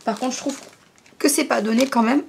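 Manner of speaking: holding back a hiccup; words caught between hiccups; suppressing hiccups. Real, not acted. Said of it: "j'ai le hoquet".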